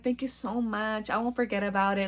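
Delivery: soft grateful thanks. Retold or imitated. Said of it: "I'm like".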